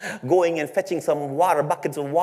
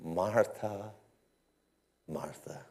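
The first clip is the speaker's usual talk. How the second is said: a soft, much quieter tender calling of the name; tender hushed call; gentle call; 10 semitones lower, 14 dB quieter, slower than usual. Acted. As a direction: call her name softly, fading away, like a patient friend. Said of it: "Jesus calls her".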